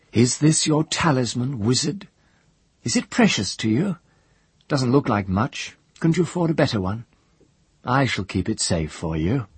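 high, taunting sneer; mocking jailer voice. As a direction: taunt the prisoner from out of reach. Manon taunting the captive wizard.

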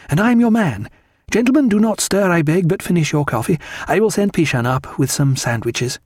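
high, animated lady of the house; Diana. A narrator's reading. Wife rallying the gentlemen, high and animated. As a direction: pitch it high and decisive. Diana voiced, giving brisk orders.

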